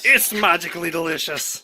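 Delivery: mock cereal commercial line; ad slogan voice. Partner quoting a cereal ad, in mock ad voice. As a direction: sell it like a cereal ad.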